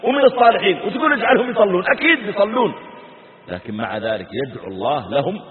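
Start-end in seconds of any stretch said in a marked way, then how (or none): 0.0-2.7 emphatic rhetorical question. Real, not acted. Preacher's rhetorical challenge.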